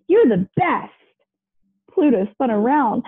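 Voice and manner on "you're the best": put-on child's voice. A narrator's reading. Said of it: "the child said".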